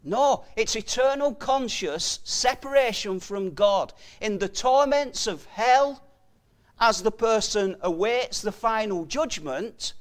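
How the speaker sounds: emphatic warning from the pulpit; forceful preaching. Real, not acted. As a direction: drive each phrase home with weight.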